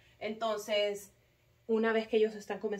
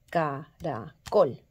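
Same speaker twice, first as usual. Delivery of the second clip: "caracol" slowly split, ca-ra-COL; stress on COL; 4 semitones lower, 6 dB louder, much slower than usual. Shown as a demonstration. Teacher showing where the force is, "caracol" with COL stressed. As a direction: separate "caracol" and punch the final COL. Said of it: "donde estaba la fuerza de la sílaba".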